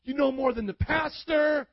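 lightly voiced devil, rising to a mock shout; tempting devil. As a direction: egg him on like a sly tempter. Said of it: "That's how the devil talks".

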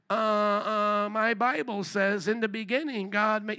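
mildly halting, unsure reply; hesitant student. Acted. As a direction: stumble in as the outnumbered Christian. Acts out hesitant Christian student.

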